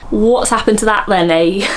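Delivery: Cockney. Acted. Host mimicking a celebrity's accent, Cockney. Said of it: "Cockney is actually Russell Brand".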